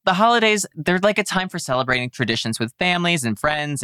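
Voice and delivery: fast, high, upbeat promo voice; polished corporate enthusiasm. Pretend. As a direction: sell the holidays like an ad. Mock cheerful holiday pitch.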